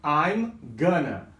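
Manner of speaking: "I'm gonna" drawn out slowly; slow teaching model; slow demo. Shown as a demonstration. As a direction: show the contraction slowly. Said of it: "Muitas pessoas falam gonna".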